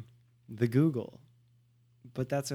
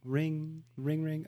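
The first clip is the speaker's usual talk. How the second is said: softer spoken ring-ring; imitating phone ring; 5 dB quieter, much slower than usual. Pretend call from his friend, soft imitated ringing. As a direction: play a phone ringing away softly. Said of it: "Now it's gonna ring".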